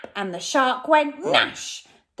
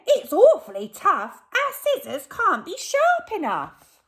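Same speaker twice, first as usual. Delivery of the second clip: much higher, a fretful robber; robber Len; 12 semitones higher, 6 dB louder than usual. Acted. Robber Len worries the mermaid is awake, high pitched. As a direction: squeak it out with a frown. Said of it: "said Len".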